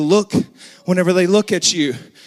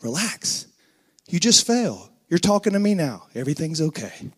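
reassuring father; 4 dB quieter than usual. Retold or imitated. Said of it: "my father's like".

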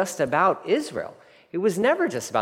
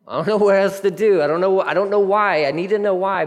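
louder, higher burst of exasperation; frustrated plea; 3 semitones higher, 4 dB louder than usual. Acted. Preacher voicing his frustrated prayer to God, pleading. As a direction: plead for answers in a rush.

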